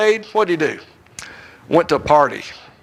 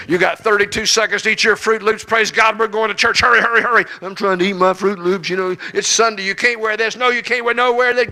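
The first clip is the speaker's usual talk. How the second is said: hurried family chaos; 5 semitones higher than usual. Retold or imitated. Family rushing to church.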